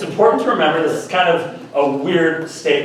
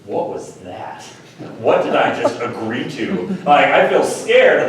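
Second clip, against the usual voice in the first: mock scared; 2 semitones lower than usual. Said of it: "walking away saying".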